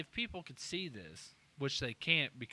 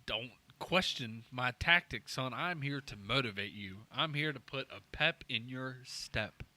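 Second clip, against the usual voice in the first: stern dad; 3 semitones lower, slower than usual. Acted. Dad giving motivational speech.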